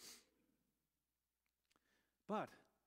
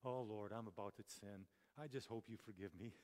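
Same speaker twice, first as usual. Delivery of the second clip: mock sinner's prayer; 5 semitones lower than usual. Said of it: "Haven't we all done this?".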